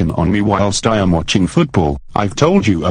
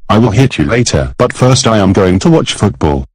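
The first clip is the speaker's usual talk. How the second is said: shouting; 5 dB louder than usual. Acted. Bullying husband shouts threats.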